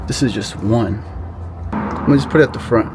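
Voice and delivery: talking while lying under a truck; lying under a car. Real, not acted. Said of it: "I'm under the truck now".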